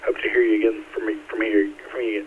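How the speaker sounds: stuck repeating words in a real stutter; catching on the words, repeating them. Real, not acted. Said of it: "I hate stuttering".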